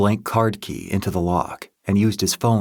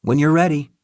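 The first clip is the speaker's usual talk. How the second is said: techie voice; 8 semitones higher, 4 dB louder than usual. A narrator's reading. Happy to Luca.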